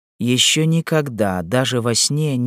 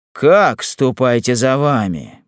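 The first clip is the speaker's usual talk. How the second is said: indignant echo; 4 dB louder, slower than usual. Acted. Chief echoes order in protest.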